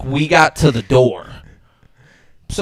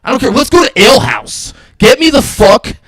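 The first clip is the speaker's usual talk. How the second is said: panicked rant; 5 semitones higher, 4 dB louder than usual. Retold or imitated. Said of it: "having a panic attack".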